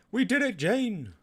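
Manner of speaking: high, loud triumphant cheer; we did it, cheering high; excited cheer. Pretend. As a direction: celebrate the win. Cheering after mission success.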